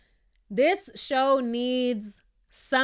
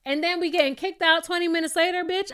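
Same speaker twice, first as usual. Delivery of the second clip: voicing Monyetta; 5 semitones higher than usual. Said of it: "And if I was Monyetta".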